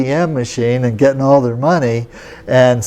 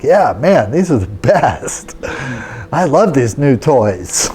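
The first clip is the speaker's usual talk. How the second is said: put-on proud little boy; slower than usual. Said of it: "I'm like".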